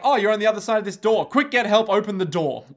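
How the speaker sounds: urgent plea. Acted. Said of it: "And Poochie's like".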